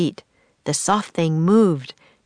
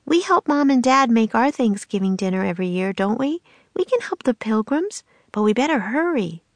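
a lightly voiced girl, higher and upbeat; eager young girl; 6 semitones higher than usual. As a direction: cheer her brother on and hurry him along. Annie's upbeat reassurance.

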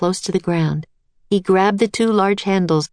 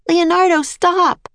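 shouting; 12 semitones higher, slower than usual. A narrator's reading. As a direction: shout after him to stop. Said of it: "shouted Annie".

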